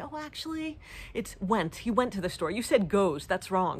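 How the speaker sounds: mock pedantic correction.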